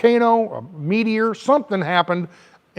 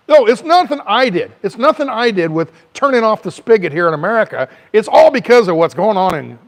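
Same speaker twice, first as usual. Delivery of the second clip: mock Biden denial; 2 semitones higher, 4 dB louder than usual.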